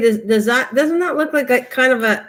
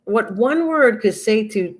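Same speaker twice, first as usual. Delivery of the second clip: slow, deliberate, each word weighed; slow, pointed moral. Real, not acted. Vlogger telling viewers how one word changes your thoughts, slow and deliberate. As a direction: drive the lesson home slowly.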